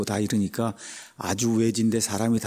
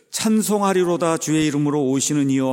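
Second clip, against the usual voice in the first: raised, higher-pitched cry of praise; quoted acclamation; 3 semitones higher, 4 dB louder than usual. Retold or imitated. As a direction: proclaim it as a welcoming crowd would. Quoting the people's future acclamation.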